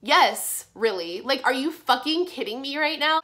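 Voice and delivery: loud, incredulous comeback, retold; exasperated mock retort to a doubter; indignant retort. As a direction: snap back in disbelief, punching the yes.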